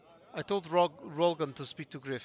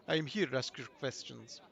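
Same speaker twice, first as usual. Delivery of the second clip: put-on Russian accent; 2 semitones lower, 5 dB quieter than usual. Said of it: "she's got a Russian accent".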